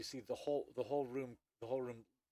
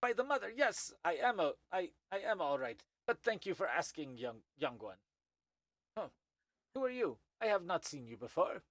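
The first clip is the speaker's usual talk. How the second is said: put-on high, cordial old insectoid voice; a courteous elder creature, pitched up; wizened Thri-kreen; 6 semitones higher, 5 dB louder than usual. Old Thri-kreen greets the young newcomer, high and polite.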